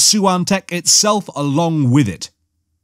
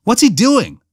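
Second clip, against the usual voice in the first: much higher-pitched, urgent question; puzzled young hero; 9 semitones higher, 3 dB louder than usual. A narrator's reading. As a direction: ask it with the pitch jumping up. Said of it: "Luke asked".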